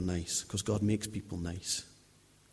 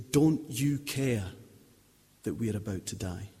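quoting the disciples. Retold or imitated. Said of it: "for saying".

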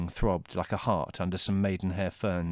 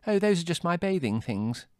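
put-on high breezy girl voice; 9 semitones higher than usual. A narrator's reading.

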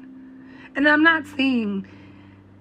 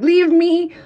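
exasperated outburst; 4 semitones higher, 3 dB louder, slower than usual. Retold or imitated. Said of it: "Sometimes you're just like".

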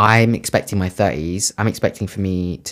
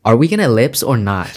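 American accent. Shown as a demonstration. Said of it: "What should I say?".

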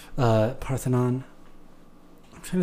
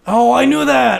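surprised; 11 semitones higher, 6 dB louder, much slower than usual. Real, not acted. Hearing the answer.

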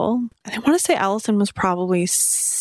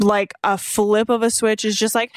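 mock maniacal laugh; 2 semitones higher than usual. Mimicking the child's sudden laugh.

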